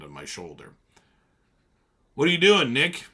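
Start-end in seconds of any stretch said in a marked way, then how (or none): 2.1-3.0 loud, higher brusque interruption; gruff Tom. Acted. Tom interrupts Daisy to talk to Nick, brusque. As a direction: cut in hard. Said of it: "let me do my Tom voice".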